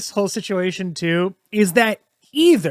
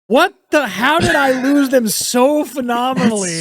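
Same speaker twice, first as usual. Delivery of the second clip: baffled dismay; 3 semitones higher than usual. Retold or imitated. Acting comic baffled after bombing.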